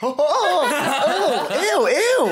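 high, laughing ew; disgusted. Real, not acted. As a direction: recoil from a bad smell. Disgust at smell.

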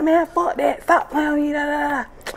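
retelling her own snap. Retold or imitated. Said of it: "I'm like".

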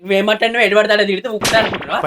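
tearful scolding; crying. Acted. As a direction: scold him through tears. Couple quarrel, wife crying. (ఏడుస్తూ తిట్టడం)

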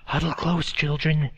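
put-on urgent old woman's hush; old woman whispering. A narrator's reading. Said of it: "an old woman whispered".

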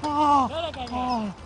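yelping under cold water; in ice cold water. Real, not acted. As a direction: gasp and yelp at the icy water. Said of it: "qué fría".

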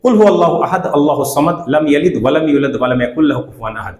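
measured, chanted recitation of Surah Ikhlas; Quran recitation. Shown as a demonstration. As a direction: intone each verse with care. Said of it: "পুরোটাই আমি পড়ে শোনাচ্ছি". (ধীর সুরে সূরা ইখলাস তিলাওয়াত)

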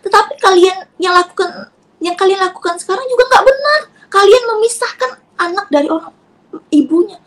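retold tirade, indignant and forceful; angry accusation. Mother accusing the in-laws of separating her child, angry. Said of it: "Marah saya pada saat itu".

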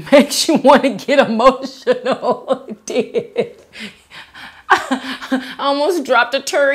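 1 laughing. Real, not acted. Laughing at a fan's comment.

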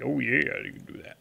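lightly played character reply, dropping to a near whisper; a hint of a silly voice, fading away; put-on voice. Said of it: "talking in a voice like that".

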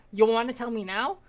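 menacing interrogation. Retold or imitated. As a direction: lean in hard on the prisoner after the stab. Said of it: "I had to stab him in the gut and go".

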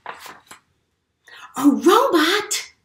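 very slow, high whispered question; whispering in awe to the children; amazed whisper. Acted. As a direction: breathe it out in wonder.

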